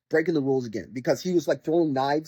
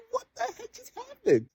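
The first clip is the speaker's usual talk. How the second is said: high, incredulous what-the-heck; shocked gamer reacting to the main character's sudden death; baffled disbelief. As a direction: sound totally thrown by the ending. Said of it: "So you're like".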